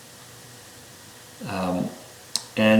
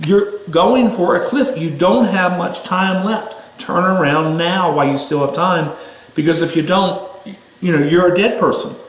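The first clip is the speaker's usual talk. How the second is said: higher, pressing warning; urgent warning; 5 semitones higher than usual. Retold or imitated. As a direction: plead with them to turn around. Warning someone heading for cliff.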